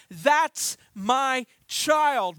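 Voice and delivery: slow, drawn-out, gentle declaration; tender God voice. Retold or imitated. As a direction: say it slowly, like a father claiming his child. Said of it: "And he says".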